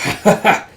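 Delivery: mock evil laugh, staccato; villainous laugh. Possessed Sinha gloating over Zeno, mock evil laugh.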